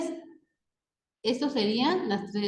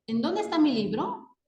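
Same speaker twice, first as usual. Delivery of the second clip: higher, rising question on "En dónde está mi libro"; 4 semitones higher than usual. Shown as a demonstration. Teacher giving students an example question, questioning tone. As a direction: ask "dónde" as a real question, lifting at the end. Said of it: "marcar el tono con que se pronuncian".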